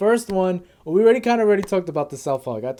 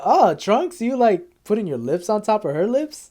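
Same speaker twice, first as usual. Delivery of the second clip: mildly freaked-out Goku, pitched up; freaking out; 4 semitones higher than usual. Retold or imitated. Goku reacting to Trunks kissing Mai, freaking out. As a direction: imitate a startled, disbelieving question. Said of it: "like, freaking out".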